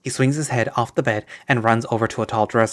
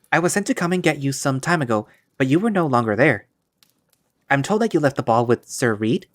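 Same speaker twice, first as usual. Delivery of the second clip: a hint of a stiff court servant; 3 semitones higher than usual. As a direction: play the prim servant at the door. Servant figure voiced.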